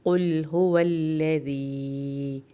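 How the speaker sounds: slow recitation; heavy qaf. Shown as a demonstration. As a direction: make the qaf of قُلْ heavy. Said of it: "قاف کو موٹا پڑھنا ہے".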